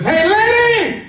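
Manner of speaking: high, loud parrot hailing someone; squawking parrot call. Acted. Parrot to the lady passing the pet store, high squawking call. Parrot calls out the next morning.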